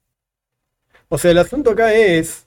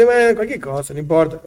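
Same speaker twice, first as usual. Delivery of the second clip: mock indifference; offhand, dismissive. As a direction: toss it off as if it hardly matters. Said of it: "Como quien habla de".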